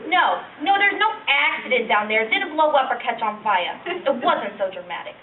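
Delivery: put-on reluctant, embarrassed old lady reminiscing; old woman. Old lady telling a young interviewer about down there, embarrassed old-woman voice. Elderly woman's monologue after plain introduction.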